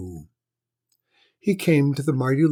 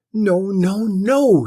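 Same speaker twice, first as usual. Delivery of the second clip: higher, louder sharp nos; snapped; 8 semitones higher, 8 dB louder, much slower than usual. A narrator's reading. Lady snapping at the lord. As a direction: snap it back at him. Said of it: "snapped the lady".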